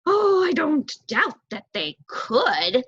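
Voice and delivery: high, fast, fretful bird voice; anxious young crow. Acted. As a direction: hurry like a nervous youngster. Crow confident reply.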